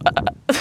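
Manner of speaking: two short loud grunts; abrupt mock burp noise; fake burp grunt. Shown as a demonstration. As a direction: imitate a non-burp "uh, uh". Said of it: "I didn't just go".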